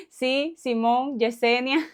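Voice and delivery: slow, playful Mexican slang; mock Mexican slang yes. Shown as a demonstration. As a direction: drawl it out as cheeky street slang. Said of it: "para decir sí en México habían más de cien maneras".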